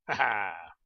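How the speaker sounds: short triumphant "ha ha"; gloating laugh. Real, not acted. Player delighted with his mob-trap plan, gloating laugh. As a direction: let out a pleased, knowing ha-ha.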